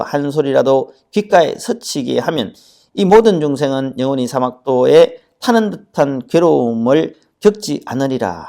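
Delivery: 또박또박 읽어 내려가는 경문 낭송; 부처님 말씀을 대중 앞에서 엄숙히 읽듯. Acted. 지장경 경전 낭독. (대중에게 지장경을 읽어 주는 엄숙한 경전 낭독)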